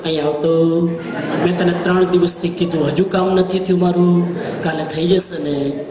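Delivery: mock anger said gently; a boss's complaint in a calm, low voice; calm scolding. Shown as a demonstration. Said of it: "ધીમે બોલી બોલીને કરો".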